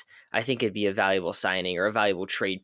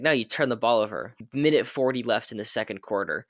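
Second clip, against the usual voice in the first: Southern Tibbs. Retold or imitated. Imitating coach Tibbs scolding a player, a hint of Southern accent. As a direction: lightly voice Tibbs with a touch of Southern accent, grumbling. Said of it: "I don't know why Tibbs got Southern".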